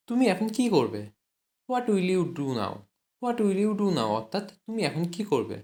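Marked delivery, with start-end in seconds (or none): 1.7-2.7 slow, word by word; slow dictation. Shown as a demonstration. English teacher dictating to Bengali students, slow and deliberate. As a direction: spell it out slowly for learners. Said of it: "teacher models the English slowly".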